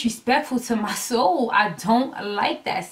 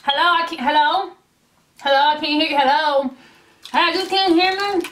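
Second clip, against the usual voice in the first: raised, repeated hellos faking a bad line; bad phone line act; 5 semitones higher than usual. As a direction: pretend the call is breaking up. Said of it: "I'm like".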